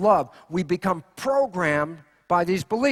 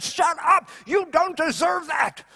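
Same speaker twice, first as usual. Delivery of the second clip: angry dad shout; 7 semitones higher, slower than usual. Retold or imitated. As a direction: snap at the crying child like a fed-up dad. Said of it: "your dad said".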